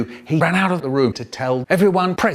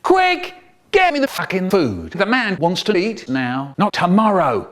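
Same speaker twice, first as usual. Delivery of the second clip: urgent yelled command, high burst on "Quick"; screamed order; 4 semitones higher than usual. Acted. Dave bursting into the kitchen, shouting orders at the cooks. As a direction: yell it across the kitchen in a panic. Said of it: "he screamed".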